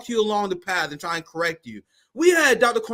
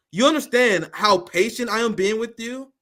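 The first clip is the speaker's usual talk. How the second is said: fake patience; 4 semitones higher than usual. Real, not acted. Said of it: "I am being very patient".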